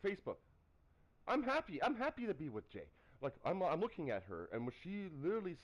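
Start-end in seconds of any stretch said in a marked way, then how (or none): 0.0-2.9 high, excited mock declaration. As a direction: gush it like an excited teen in love. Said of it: "she's like".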